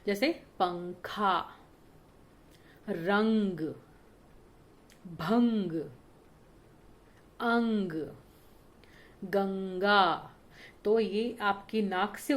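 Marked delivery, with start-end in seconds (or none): 0.1-10.3 पंखा, रंग, अंग, गंगा slow, every nasal sound stretched; nasal anusvara examples. Shown as a demonstration. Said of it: "नाक से ध्वनि निकलती है". (नाक से ध्वनि वाले शब्द धीरे-धीरे, अनुस्वार साफ़)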